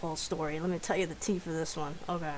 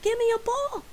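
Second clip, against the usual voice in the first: high, loud mock yell; insistent demand; 6 dB louder than usual. Sick roommate insisting on a cereal bowl, yelled demand.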